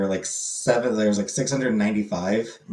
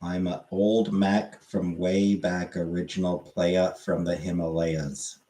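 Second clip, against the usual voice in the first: put-on old-school rapper; 5 semitones lower, 4 dB quieter, slower than usual. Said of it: "I'm not doing a, an accent".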